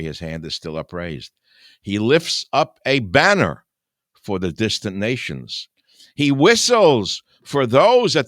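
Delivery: solemn biblical reading; scripture reading. Acted. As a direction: read the prophecy like a preacher. Reads Isaiah scripture aloud.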